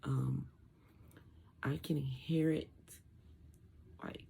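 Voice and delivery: garbled, muffled post-surgery speech. Real, not acted. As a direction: talk through a swollen throat, muffled. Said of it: "feels like I'm talking garbled".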